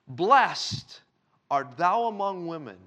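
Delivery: proclaimed loudly, like a cry of joy. Acted. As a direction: call out the blessing with full voice. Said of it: "And she spake out with a loud voice".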